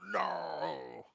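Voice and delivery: sudden furious shout, high and loud; enraged cry. Acted. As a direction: roar it out in rage. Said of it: "terrible cry and shout".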